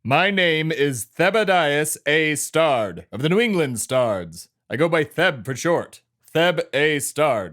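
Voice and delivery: put-on slow, self-important New England accent, drawn out; quasi-New England accent. Character introduces himself to cohost, in a put-on New England accent. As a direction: announce the family name like New England aristocracy. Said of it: "quasi-New Englandy accent you've got going on".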